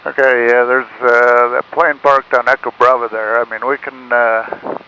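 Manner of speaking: radio-filtered pilot voice; speaking through a cockpit radio; pilot over the radio. Real, not acted.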